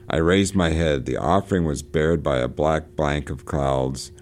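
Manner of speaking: measured literary reading, lifted at the start; story narration. Acted. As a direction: read the final paragraph like a storyteller closing the tale. Reads closing paragraph of novel.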